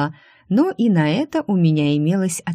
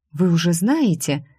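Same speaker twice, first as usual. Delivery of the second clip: mildly teasing, intriguing question. Acted. Secretary baits her angry rival, lightly intriguing. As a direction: ask as if holding a secret. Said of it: "с интригой спросила я".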